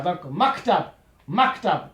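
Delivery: maktab avec le K bien appuyé sur la consonne muette; K accentué. Shown as a demonstration. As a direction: appuie le K de maktab. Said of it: "mettre juste l'accent sur le K". (maktab, le K net et appuyé)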